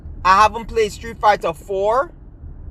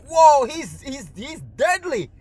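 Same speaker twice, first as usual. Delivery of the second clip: higher, awestruck imitation of amazed kids; awed kids; 6 semitones higher than usual. Kids watching through the window marvel at the character, higher and awestruck. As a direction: gasp it out like you just saw a monster move. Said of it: "everybody's like".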